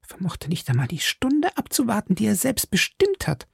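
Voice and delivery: a hint of panic, stammering; stammering maid. A narrator's reading. Maid Cathy whispering her alarm, high and shaken. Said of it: "stammelte Cathy".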